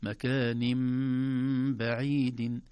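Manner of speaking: مكان بعيد with the nun turned to meem; correct recitation. Shown as a demonstration. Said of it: "لا".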